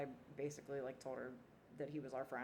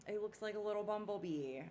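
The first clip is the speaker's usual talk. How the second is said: lightly voiced little girl, pitched higher; a hint of an imitated giggly child; giggling little girl; 5 semitones higher than usual. Little girl cutting in about the bug, lightly imitated. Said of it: "she's giggling".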